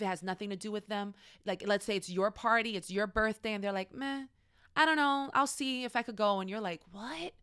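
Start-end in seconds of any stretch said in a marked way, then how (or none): 3.9-6.4 higher, dismissive brush-off; mock reluctant, can't-be-bothered voice; noncommittal friend. Friend dodging your birthday party invite, noncommittal. 6.9-7.3 soft, high, rising disbelief; acted baffled question; incredulous reaction. Hurt friend answering the birthday brush-off, incredulous.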